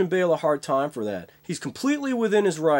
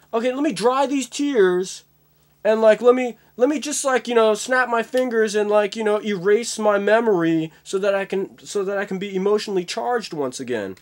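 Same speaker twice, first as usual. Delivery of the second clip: higher, mocking complaint; sarcastic actor; 3 semitones higher than usual. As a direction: sneer at the crew as a diva.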